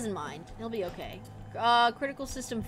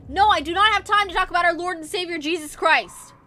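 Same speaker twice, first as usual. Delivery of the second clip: raised voice; 3 semitones higher, 5 dB louder than usual. Real, not acted. Joke yelled at pursuing monster.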